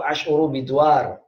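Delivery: "Ash'uru biduar" said slowly and clearly; slow Arabic demo. Shown as a demonstration. Teacher models dizziness phrase in Arabic, slow and clear. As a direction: draw out "Ash'uru biduar" for students to repeat.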